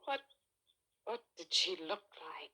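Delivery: hushed, breathless whisper; wife whispering, dreading to hear about the other woman; anxious whisper. Acted. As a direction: whisper it, afraid of the answer. Wife asks, dreading the answer.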